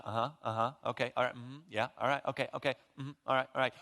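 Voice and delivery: hurried, dismissive uh-huhs waiting to interrupt; impatient mock agreement. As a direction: brush her off with quick okays. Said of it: "just kinda looking at her mouth".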